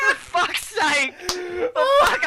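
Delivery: exasperated yell at the muted mic; frustrated outburst. Real, not acted. Cohost fuming that his mic was muted all along, frustrated shout.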